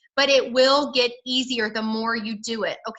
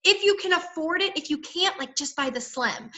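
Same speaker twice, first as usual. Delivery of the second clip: high, hesitant start sinking softer; mock embarrassment; 5 semitones higher, 3 dB quieter than usual. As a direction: imitate an embarrassed, backtracking seller. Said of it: "I used to get embarrassed".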